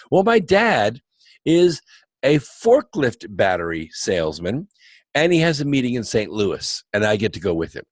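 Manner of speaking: lightly voiced eager teenager; a touch of retold excitement; excited waitress. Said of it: "she was really excited about it".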